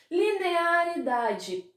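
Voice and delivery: Linearidade stretched slowly, each syllable spelled out; slow stressed Linearidade; drawn-out key word. Shown as a demonstration. Teacher stresses key term slowly.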